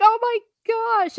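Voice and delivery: high, drawn-out thrilled reaction; excited gasp. Retold or imitated. Reader reacting to the warning, thrilled. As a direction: stretch it out high in amazement.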